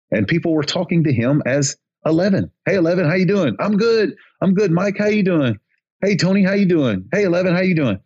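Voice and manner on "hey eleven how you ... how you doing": acted friendly greetings.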